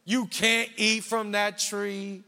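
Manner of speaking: slow, drawn-out doubting question; tempting serpent. Acted. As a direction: stretch the doubt out slyly. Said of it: "he always goes like".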